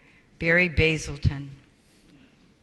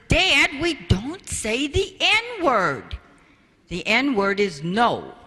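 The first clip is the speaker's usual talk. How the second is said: lightly voiced daughter, higher and slow; chiding daughter; 4 semitones higher, slower than usual. Daughter correcting her father outside, mock prim. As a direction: correct Dad primly. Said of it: "Jennifer comes out and says".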